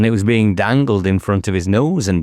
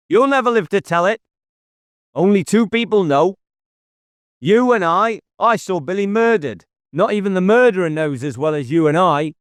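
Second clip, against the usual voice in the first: much higher, fast, cold threat; calm murderer revealing himself to the inspector; menacing killer; 10 semitones higher than usual. Acted. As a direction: savour announcing his death. Jippo threatens David.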